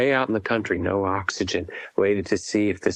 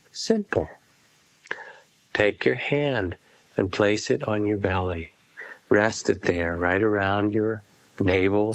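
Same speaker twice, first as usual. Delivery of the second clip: unhurried phrases, each left to settle; guided meditation. Acted. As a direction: guide listeners gently into feeling the breath. Leads a breath meditation.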